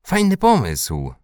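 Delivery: high, drawn-out approval; delighted. A narrator's reading. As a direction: welcome the idea with glee. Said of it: "ucieszył się Dominik".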